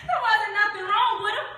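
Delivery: high, loud protest; heated denial. Acted. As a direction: insist at the top of the range.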